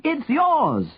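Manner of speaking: high, carrying call; shouting. A narrator's reading. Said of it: "Henry shouted at him".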